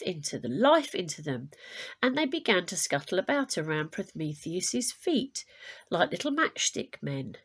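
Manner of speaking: lively storybook reading to a class; story narration. A narrator's reading. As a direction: read it like a myth for children, clear and bright. Teacher reads myth aloud to class.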